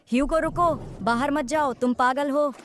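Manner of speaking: alarmed calling. Acted. Sister calls after fleeing brother, urgent alarm. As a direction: stop him before he gets out.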